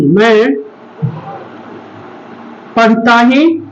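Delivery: ही pressed with a falling tune; stress on ही. Shown as a demonstration. Teacher showing the class emphasis on ही. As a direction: lean on ही. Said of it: "इसी को बोल सकते".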